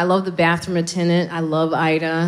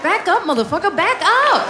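mock yell; 10 semitones higher than usual. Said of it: "You're like".

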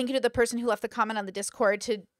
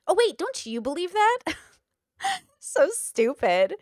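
high mock surprise breaking into laughter; mock laughing; 6 semitones higher, 4 dB louder than usual. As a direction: imitate a friend laughing through a jab. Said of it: "sitting there and laughing and goes".

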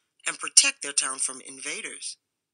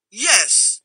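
grumbled yes; 5 semitones higher, 7 dB louder than usual. A narrator's reading. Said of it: "grumbled Rufus".

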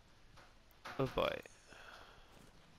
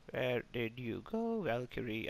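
slow, drawn-out teasing call; playful taunt; 4 dB quieter, slower than usual. Pretend. Player hunting the hidden Valkyrie, playful taunt. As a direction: draw it out as if playing hide-and-seek.

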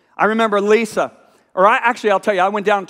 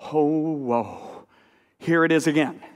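softer, awed whoa, voice dropped low; hushed awe; 6 semitones lower, 6 dB quieter, slower than usual. Retold or imitated. Watching the weeping women, hushed in awe. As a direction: breathe it out in wonder.

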